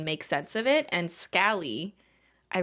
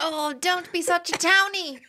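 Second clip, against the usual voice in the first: put-on posh British accent; 9 semitones higher than usual. Continues posh banter.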